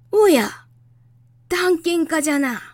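put-on surprised old scholar calling out; high, loud old man's exclamation; creaky wise old man. Old geographer greets the prince.

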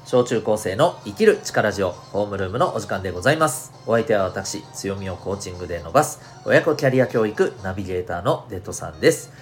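upbeat radio show opening; radio host intro. Acted.

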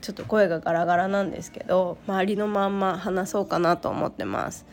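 hoarse from a cold; raspy, worn-out cold voice. Real, not acted.

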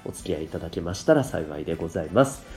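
stuffy blocked nose; talking through a cold; nasal voice. Real, not acted. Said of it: "かなり鼻声ですよね。".

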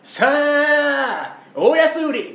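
loud high shop barker call; bright loud shop welcome. Retold or imitated. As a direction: call out a sale like a store clerk. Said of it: "みたいな言ってる人おるよ".

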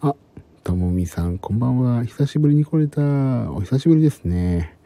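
hushed whisper throughout. Real, not acted. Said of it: "今日はひそひそ声で話しております。".

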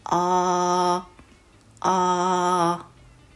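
あー held long as an open vowel midway between o and a; sound between o and a. Shown as a demonstration. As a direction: stretch あー slowly, aiming between Japanese o and a. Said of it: "おとあの中間の音を目指して".

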